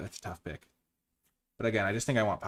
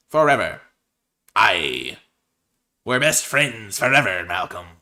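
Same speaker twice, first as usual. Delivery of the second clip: lightly hammed pirate talk, a bit louder; 7 dB louder than usual. Drafter talking pirate to Malcolm card, mild hammy pirate. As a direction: play a jolly pirate to your mate. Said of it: "talking like Barbossa from Pirates".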